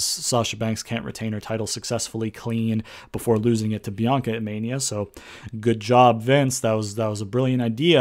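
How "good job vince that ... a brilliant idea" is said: deadpan mock praise; dry, sarcastic compliment. Real, not acted. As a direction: congratulate him while meaning the opposite. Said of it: "I'm being sarcastic".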